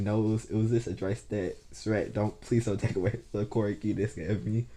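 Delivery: lightly stammered pleading; stuttering in his head. Retold or imitated. Boy pleading in his head to keep his powers, stuttering. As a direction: restart words as if stuttering. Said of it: "he's stuttering in his head, saying".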